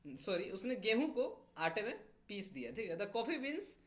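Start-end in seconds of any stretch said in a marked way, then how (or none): 3.0-3.7 slow, even example sentence; slow dictation read. Shown as a demonstration. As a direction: read slowly so they can write it. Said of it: "मतलब coffee beans को".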